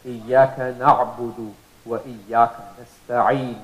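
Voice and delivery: recited verse stressing the ayn; Quran recitation. Shown as a demonstration. Teacher reciting a verse to show ayn. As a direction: chant the verse with a clear ayn. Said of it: "From the middle of the throat".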